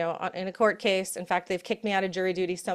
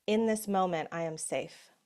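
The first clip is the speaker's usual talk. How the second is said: slow, calm self-reassurance; calm affirmation; slower than usual. Shown as a demonstration. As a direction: soothe yourself gently. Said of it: "when we can slow down and remember".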